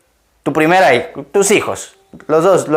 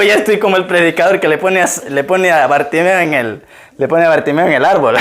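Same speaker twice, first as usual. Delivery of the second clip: laughing at himself. Retold or imitated. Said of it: "Y yo digo".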